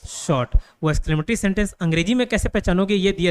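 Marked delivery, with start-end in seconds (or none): 0.1-0.6 very slow what a shot in wonder; slow amazed exclaim. Shown as a demonstration. Teacher showing students a cricket exclamation, slow and impressed. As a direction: stretch it out, impressed. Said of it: "तो क्या बोलें".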